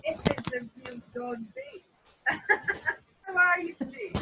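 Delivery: echoey, roomy sound; like talking inside a cave. Real, not acted. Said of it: "your sound is still really atmospheric".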